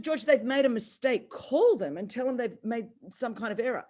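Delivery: retold panic at the news; freaked out. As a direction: push back fast, rattled and denying. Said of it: "I freaked out".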